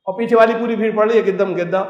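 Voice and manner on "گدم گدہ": "گدم گدہ" repeated with hard g for j; Egyptian pronunciation. Retold or imitated. Imitating the crowd repeating after the Egyptian guide, "گدم گدہ" with hard g. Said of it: "وہ ایسی تو مصری کا pronunciation ہے".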